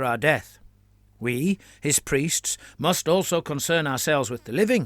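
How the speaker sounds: pompous, meandering sermonising cleric; a touch of droning sermon; rambling priest. Acted. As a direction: blather on to bury the meaning. Biagino blathers to obfuscate.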